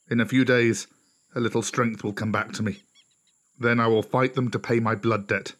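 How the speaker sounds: measured warning from a beaten lone wolf; grave outlier wolf. Acted. Outlier warns the pack of the red dog, grave and measured.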